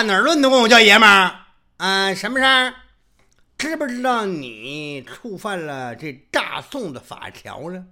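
loud, high scolding, slowing down; angry old man. Acted. Angry old man scolds Yuwen Jin, loud and high. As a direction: scold him like an offended elder. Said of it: "老头气大".

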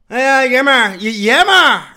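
loud, high outraged cry; furious old man. Acted. Old man outraged at being called buddy, loud angry cry. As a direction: bellow it in offended fury. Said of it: "老头气大".

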